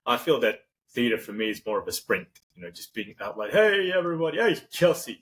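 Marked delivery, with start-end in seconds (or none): 3.5-5.2 high-pitched, bouncy stage hello; energetic greeting. Shown as a demonstration. Performer greeting the audience at the top of the show, energetic. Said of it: "a bit of a energetic thing".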